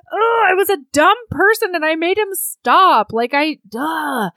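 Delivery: high, exasperated groan at oneself; mock self-berating. Heroine scolds herself for stopping him, mock exasperation. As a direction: kick yourself, played for comedy. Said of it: "she's berating herself internally".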